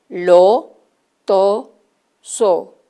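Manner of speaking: tar, par, tan, dar each loud and separate; clear syllables. Shown as a demonstration. Teacher presenting syllables to children, loud and clear. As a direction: call out each syllable firmly. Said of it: "¿cuáles son iguales?".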